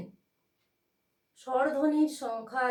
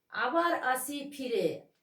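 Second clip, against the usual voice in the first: আবার আসি ফিরে slowly, beats on আ of আবার and on ফি of ফিরে; stress on আবার and ফিরে; slower than usual. Shown as a demonstration. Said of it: "আবার আয়ের উপরে একটা ঝোঁক পড়েছে".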